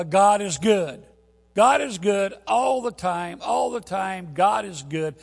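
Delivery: loud churchy chant; loud, slow repeated praise; call and response. Retold or imitated. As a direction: shout it like a praise leader.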